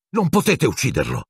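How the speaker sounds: high-pitched urgent protest; out of breath. A narrator's reading. Harry shielding Pettigrew from the wands, breathless protest. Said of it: "disse col fiato mozzo".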